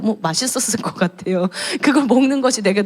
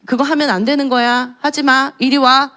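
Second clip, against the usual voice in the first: put-on scolding child; 4 semitones higher than usual. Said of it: "막 그러거든요".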